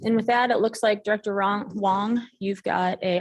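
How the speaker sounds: talking around a mint; mouth full. Real, not acted. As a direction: speak with a mint in your mouth. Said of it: "I have a mint in my mouth".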